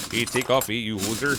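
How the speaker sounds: lightly put-on hoser Canadian accent; Bob and Doug McKenzie Canadian accent. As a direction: have a go at a comic Canadian accent. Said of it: "like a Bob and Doug McKenzie kind of accent".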